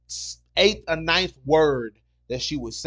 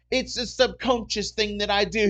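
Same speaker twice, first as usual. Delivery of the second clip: higher-pitched imitation British accent; 6 semitones higher than usual. Customer explaining her switching accent, imitated British accent. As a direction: imitate a woman slipping into British. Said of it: "like somebody flipped the damn switch on".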